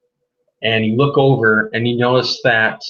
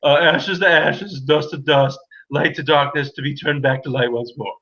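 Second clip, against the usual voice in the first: lightly voiced flustered priest, reciting; rushed priest's rite; 3 semitones higher than usual. Priest hurrying back to finish the burial rite. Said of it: "runs back ... and says".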